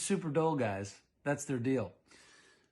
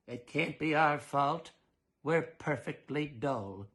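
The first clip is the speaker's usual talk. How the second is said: mild comforting; slower than usual. Acted. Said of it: "comforted his wife".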